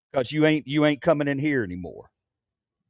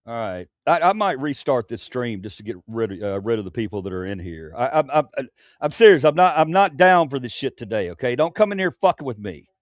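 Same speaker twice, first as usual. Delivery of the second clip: calm turning angry. Real, not acted. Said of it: "This is my serious face".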